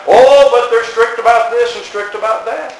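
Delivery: mock smug boast. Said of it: "how that".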